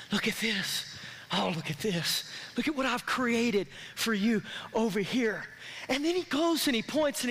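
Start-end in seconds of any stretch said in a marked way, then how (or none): 0.1-5.4 God quote. Retold or imitated. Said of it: "as he began to point out all of the blessings".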